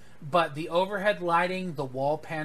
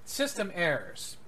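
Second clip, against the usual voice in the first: calm ship computer. Acted. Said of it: "Your computer has a lot of attitude".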